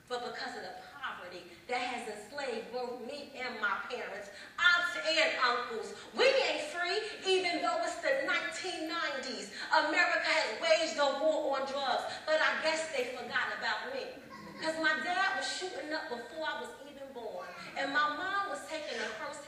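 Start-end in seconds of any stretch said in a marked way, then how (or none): 4.6-14.1 loud, emphatic spoken-word verse; forceful protest. Acted. Poet protesting the war on drugs, forceful protest. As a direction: hit the phrases hard like a protest.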